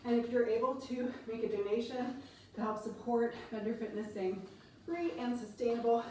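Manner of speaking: ordinary talk, nothing marked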